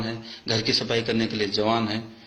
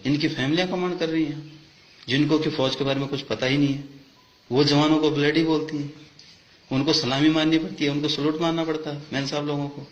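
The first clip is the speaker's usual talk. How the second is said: heated, higher-pitched grievance; real indignation; 4 semitones higher than usual. Real, not acted. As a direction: protest the injustice with pitch raised. Angry complaint about saluting officers' wives. (आक्रोश में शिकायत, ऊँचे सुर में)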